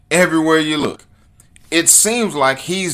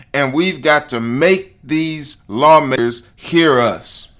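raised, louder impassioned appeal; rally the listeners with insistent force; worked-up, high-energy exhortation; all riled up; 5 semitones higher, 5 dB louder than usual. Real, not acted. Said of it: "I'm getting all riled up about this".

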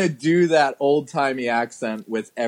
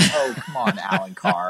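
exasperated; 4 dB quieter than usual. Retold or imitated. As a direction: roll your eyes at the director. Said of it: "I'm just like".

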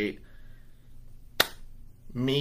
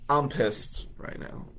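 laughing it off; 3 semitones higher, slower than usual. Real, not acted. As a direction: chuckle out the anger, half whispered. Laughing while admitting anger.

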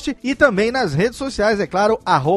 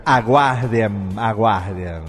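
very low, drawn-out teaser voice; deep booming announcer; 11 semitones lower, slower than usual. Acted. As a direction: boom the word like a trailer.

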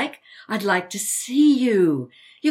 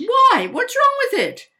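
indignant surprise; 14 semitones higher, 7 dB louder than usual. Acted. Mother indignant at daughter.

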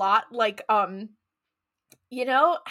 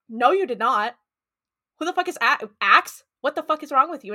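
louder, incredulous and indignant; mock angry outburst; 2 semitones higher, 5 dB louder than usual. Din, hearing the wrong name, blurts out an offended outburst. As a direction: snap back at her like an offended friend. Acted quarrel, Din snapping at Bo.

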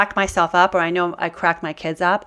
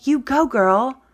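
gushing self-praise; 8 semitones higher, 6 dB louder than usual. Acted. Woman parenting herself over her own painting, gushing with praise. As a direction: cheer yourself on like an over-the-top proud parent. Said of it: "I'm the one who has to say".

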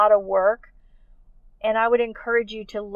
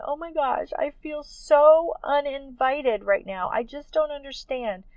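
raised, pleading voice re-living tears; a mild echo of crying out on the hill; retold tearful plea; 5 semitones higher than usual. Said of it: "crying on this hill, going".

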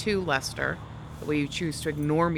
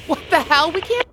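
sudden high, loud alarm; alarmed shout; 11 semitones higher, 12 dB louder than usual. Acted. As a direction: shout in panic at the news. GPS says wrong way.

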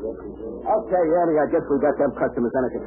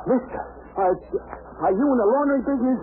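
incredulous high; 12 semitones higher than usual. Acted. Incredulous question.

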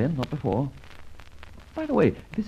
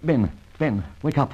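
louder, pressing call to wake him; urgent rousing; 4 dB louder than usual. Acted. Friend rousing a knocked-out detective, urgent and loud. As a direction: shake him awake with your voice.

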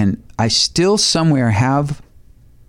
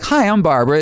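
casual hello; 5 semitones higher than usual. Retold or imitated. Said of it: "there's not like".

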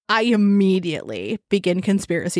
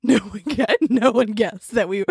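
laughing tease; 3 semitones higher than usual. Real, not acted. Co-host teasing that nobody guessed Iowa, laughing. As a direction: protest breaking into laughter.

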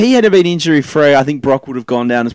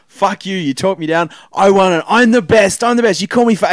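wrestling promo; 4 semitones higher than usual. Retold or imitated. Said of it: "Brock cut a promo saying".

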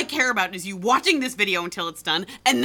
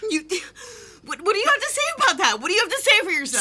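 high, fast, breathless demand; rapid-fire angry challenge; furious demand; 11 semitones higher, faster than usual. Acted. She demands he answer for himself, fast and high.

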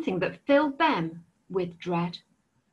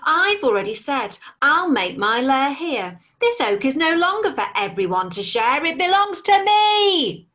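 louder, rising to a much higher snarl; snarling stubborn dragon; 5 semitones higher, 4 dB louder than usual. Acted. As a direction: stake his claim, getting angrier. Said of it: "snarled the stubborn dragon".

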